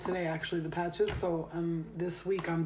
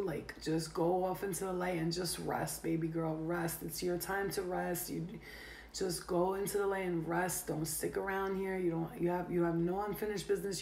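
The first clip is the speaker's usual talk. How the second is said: tender reassurance; 4 dB quieter than usual. Real, not acted. Soothing the departed spirit.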